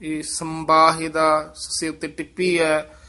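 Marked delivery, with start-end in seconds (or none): 0.2-1.5 "ਸੰਬਾਹਿਦਾ" with a firm m before the b; tightened nasal. Shown as a demonstration. Teacher pointing out the tippi, "ਸੰਬਾਹਿਦਾ" with firm m. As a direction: press the sam in "ਸੰਬਾਹਿਦਾ". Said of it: "ਥੋੜਾ ਜਿਹਾ ਕੱਸ ਕੇ ਉਚਾਰਨ".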